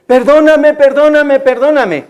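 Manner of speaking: lightly acted string of pleas, one after another; repeated pleading. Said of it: "ella estuvo pidiéndome muchas veces". (súplica repetida e insistente, imitando a la hija)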